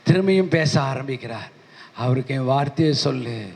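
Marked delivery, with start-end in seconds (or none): 2.0-3.5 lower, solemn commanding voice of God; voice of the Lord. Retold or imitated. The Lord tells his servant on the train to speak, in a lower solemn voice.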